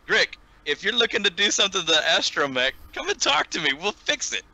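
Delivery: high, eager offer to fix the droid; mechanic's offer. Acted. Mechanic offering to fix the astromech, lightly sung high. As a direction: sweetly pitch up to sell the repair.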